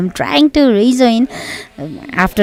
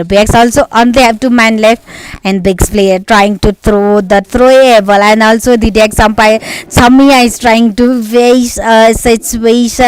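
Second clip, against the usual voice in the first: louder, driving esports commentary; live play-by-play; 4 dB louder than usual. Acted. Caster calling a PUBG Mobile fight to viewers, live play-by-play. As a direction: call the fight like a caster on the mic.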